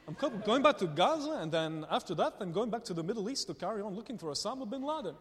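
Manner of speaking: lightly put-on Dutch accent; playful imitation of a Dutch accent. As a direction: retell it cheerily as a Dutchman would. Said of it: "That was my Dutch accent".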